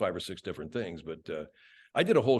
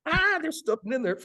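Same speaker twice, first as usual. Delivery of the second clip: mock voice; 3 dB louder than usual. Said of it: "I go".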